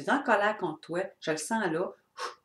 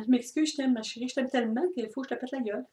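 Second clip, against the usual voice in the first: mocking abusive husband; 6 semitones higher, faster than usual. Mocking the violent husband begging his wife, high hammed-up pleading. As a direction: ham up the wife-beater's fake apology. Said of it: "Le gars, il revient tout le temps".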